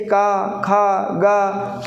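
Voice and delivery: का, खा, गा made from the throat; teacher's separated velar का, खा, गा; throat sounds demonstrated. Shown as a demonstration. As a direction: draw out का, खा, गा from the throat, one by one. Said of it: "कंठ से आवाज़ निकल रही है".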